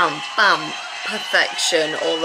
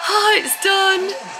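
imitating dancers' relief; 11 semitones higher, slower than usual. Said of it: "now they're like".

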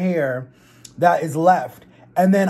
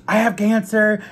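retold freak-out, pitched up but not truly screamed; mock panicked scream; 5 semitones higher than usual. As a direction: imitate a panicked kid crying out to mom, higher. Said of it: "screaming to my mom, bloody murder".

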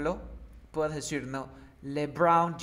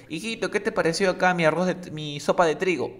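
mother asking; 3 semitones higher, 6 dB louder, faster than usual. Retold or imitated. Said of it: "Por ejemplo".

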